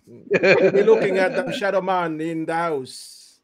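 put-on slow, stretched-out Jamaican accent; hammed-up Jamaican accent. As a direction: savour each word in a mock Jamaican lilt. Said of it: "Eugene goes full Jamaican".

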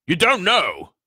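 high, loud falling exclamation; astounded giant. A narrator's reading. Giant takes in the boy's ignorance, astounded. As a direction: cry it out in utter disbelief.

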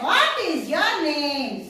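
"what is your name?" slow, with weight on "what"; slow model answer. Shown as a demonstration. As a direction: read "what is your name?" slowly, leaning on "what".

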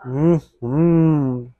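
humming between bites; chewing food. Real, not acted. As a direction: mouth full while humming. Seen 2: Bit food at -3; closed-mouth chewing, looking down while humming.

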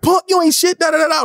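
high-pitched cocky mock insult; acted-out fighting talk; retold taunt. Retold scuffle with castmate.

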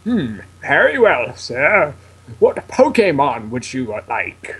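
slow, lightly voiced professor; measured mentor character read; drawn-out, pondering professor; Professor Oak. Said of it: "Professor Oak's voice".

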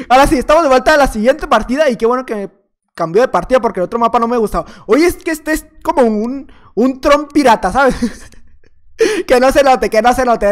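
ordinary talk, nothing marked

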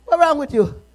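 the question called out, loud and pressing; loud demand. Acted. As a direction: fling the question out at the church. Preacher repeats question, now loud.

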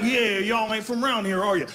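put-on Texan accent. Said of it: "They're like".

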